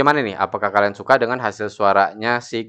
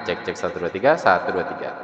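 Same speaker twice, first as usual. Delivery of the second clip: mic test with echo on; echo effect; 2 semitones lower than usual. Shown as a demonstration. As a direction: count through a heavy echo effect. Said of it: "dengan mikrofon echo-nya saya aktifkan". (suara dengan efek echo)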